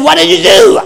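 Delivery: eager question. Retold or imitated. Eager question in retold dialogue.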